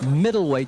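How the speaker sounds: middleweight punched out; stress on middleweight. Real, not acted. Interviewer stressing the weight class to the boxer, middleweight emphasized. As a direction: lean firmly on the word middleweight. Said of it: "I emphasize the word middleweight".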